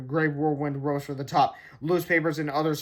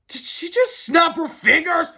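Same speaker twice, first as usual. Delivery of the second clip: dread; 12 semitones higher, 6 dB louder, slower than usual. Acted. Harold dreads the snap.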